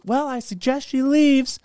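high, slow mock-indignant mom voice; mad mom. Mom orders girl out of son's room, mad. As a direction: imitate a mother icily ordering someone out. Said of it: "she's just mad".

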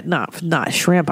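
ordinary talk, nothing marked

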